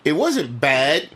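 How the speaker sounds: "It wasn't bad" said slowly, weighing each word; slow and measured. Real, not acted. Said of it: "hedging his verdict".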